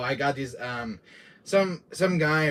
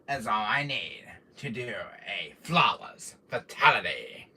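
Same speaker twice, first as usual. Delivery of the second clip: slow, lowered villain boast; Wesker voice; 4 semitones lower, slower than usual. Acted. Streamer boasting to chat as his villain, slow and smug. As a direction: gloat slowly like a smug villain. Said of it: "I love doing my Wesker voice".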